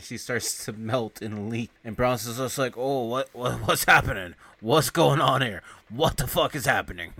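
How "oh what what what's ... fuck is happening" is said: panicked confusion. Retold or imitated. Bronson voiced, girlfriend melting.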